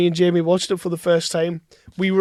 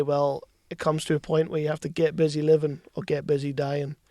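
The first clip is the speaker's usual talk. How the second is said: 1 deep Shawshank quote; 3 semitones lower, 7 dB quieter than usual. Retold or imitated. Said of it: "quote Shawshank".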